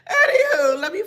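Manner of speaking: high loud laugh spilling into a word; shrieking laugh. Real, not acted. Psychic cracking up at a commenter before refocusing. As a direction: laugh hard, then try to go on.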